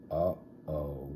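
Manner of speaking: soft worried uh-oh; whispered. Acted. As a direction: whisper in dread. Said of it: "whispered the kids".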